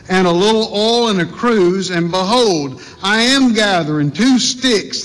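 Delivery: measured, solemn Bible reading; scripture reading. Acted. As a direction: read the King James text with reverence.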